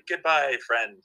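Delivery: high mechanical theme-park robot voice; lightly voiced robot farewell; robot goodbye. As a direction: imitate a talking animatronic. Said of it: "he'd just, like".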